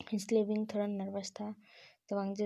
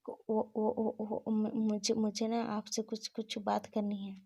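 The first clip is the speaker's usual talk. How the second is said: halting, stammering nervous confession; lightly stammered, a touch of fear. Acted. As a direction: stumble over the words, scared to say it. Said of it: "बहुत nervous था".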